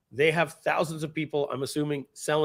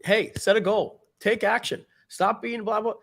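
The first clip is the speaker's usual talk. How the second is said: mock lecturing; 8 semitones higher than usual. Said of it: "stop saying to that person".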